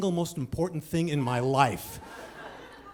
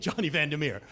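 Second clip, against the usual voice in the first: cool quick answer; 2 semitones lower, 4 dB quieter than usual. Shown as a demonstration. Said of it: "I'm saying it like that".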